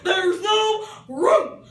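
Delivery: loud, high and slow; drawn-out shout. Acted. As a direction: stretch the words as a jeer. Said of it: "they cried out".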